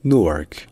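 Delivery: "Newark" sans y, première voyelle brève; abréger le début de "Newark"; variante américaine courte. Shown as a demonstration. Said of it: "est-ce que c'est un ou court". (« Newark » à l'américaine, voyelle brève)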